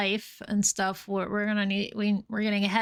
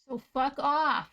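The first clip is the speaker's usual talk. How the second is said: mock telling off; 3 semitones higher, slower than usual. Real, not acted. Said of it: "I have to yell at the cat".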